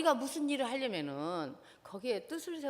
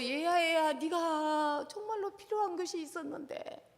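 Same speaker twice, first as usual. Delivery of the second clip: put-on gentle apology to child. Shown as a demonstration. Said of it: "나 사과부터 먼저 하라 그랬어요". (자녀에게 사과하는 부드러운 부모 목소리)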